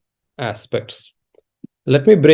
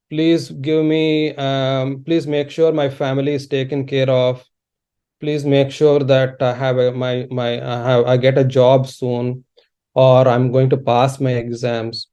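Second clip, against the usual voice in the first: low, even murmur of a routine prayer; imitated petition prayer; 4 semitones lower than usual. Worshipper asking favours at a puja, imitated monotone pleading. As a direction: recite requests in a subdued monotone.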